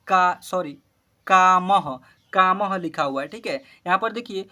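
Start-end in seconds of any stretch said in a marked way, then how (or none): 1.3-2.8 कामह said as kaa-maha; visarga ending. Shown as a demonstration. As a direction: end कामह on a clear aha. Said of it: "अह है last में". (कामह के अंत में अह का उच्चारण)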